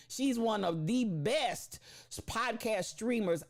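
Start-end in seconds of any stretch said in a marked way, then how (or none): 0.1-1.8 she's one of the best, said slowly; slow emphatic repeat. Real, not acted. Host praising her moderator friend, slow emphatic repeat. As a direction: stress it slowly. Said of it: "I'm gonna say it again".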